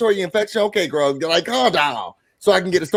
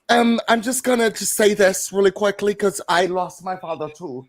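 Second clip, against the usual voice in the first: put-on higher voice with a vague French-like accent; odd, slightly French accent; 4 semitones higher than usual. Host quoting Tia to the cast, accidental French-ish accent. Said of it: "what was that accent?".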